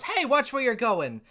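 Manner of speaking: sharp annoyed shout; yelling. Acted. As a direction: call it out indignantly. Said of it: "and she yells".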